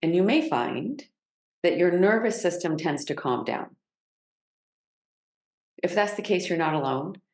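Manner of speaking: unhurried guiding voice with long pauses; measured meditation cues, settling on each phrase; guided grounding practice. Real, not acted.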